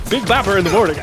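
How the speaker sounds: high, loud cheesy DJ tag line; radio DJ. Pretend. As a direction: hype it like a morning show jingle. Joins the radio DJ parody.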